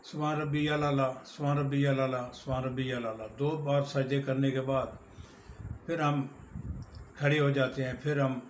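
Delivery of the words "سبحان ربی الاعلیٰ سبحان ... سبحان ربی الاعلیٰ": quick repeated phrase with the words run together; rushed سبحان ربی الاعلیٰ; hurried recitation. Shown as a demonstration. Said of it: "سجدے میں تین دفعہ پڑھتے ہیں".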